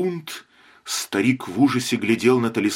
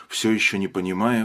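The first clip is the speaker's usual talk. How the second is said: ordinary delivery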